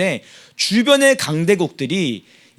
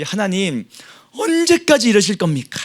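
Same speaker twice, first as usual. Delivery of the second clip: 탄식; 4 semitones higher than usual. Retold or imitated. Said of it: "라고 지금 고백하는 겁니다".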